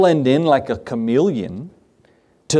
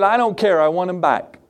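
put-on higher-pitched, mildly upset child; upset little girl; 4 semitones higher than usual. Little girl refusing her father's comfort, lightly voiced upset. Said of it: "she was just so upset".

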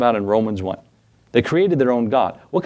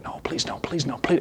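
pleading; 3 semitones higher, 9 dB quieter than usual. Retold or imitated. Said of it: "And I went".

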